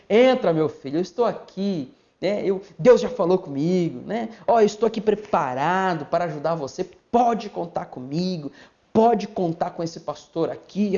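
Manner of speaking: gently acted caring pastor greeting a visitor; smiling pastor. Shown as a demonstration. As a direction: reassure the visitor with a smile in the voice. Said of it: "O pastor tem que tá sorridente".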